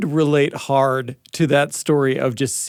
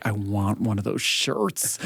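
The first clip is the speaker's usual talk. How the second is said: quoted want; 6 semitones lower, 7 dB quieter, slower than usual. Retold or imitated. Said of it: "I was like".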